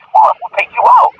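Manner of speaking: high, eager invitation; cheerfully urging her to come out; lively mock coaxing; excited coaxing. Coaxing new mother to go out.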